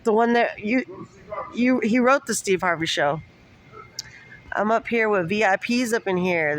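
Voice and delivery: loud and high, bursting with excitement; excited greeting. Real, not acted. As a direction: hype up the VIPs who just walked in. Excitedly greeting visitors on camera.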